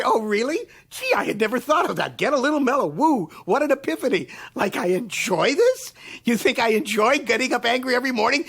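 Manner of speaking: drip with irony; sarcastic. Retold or imitated. Mocking people who tell him to be mellow.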